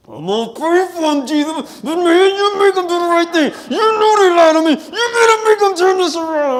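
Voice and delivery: high, loud, tearful shouting prayer; angry prayer. Retold or imitated. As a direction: yell it at Jesus, close to tears. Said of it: "I was so angry, filled with rage".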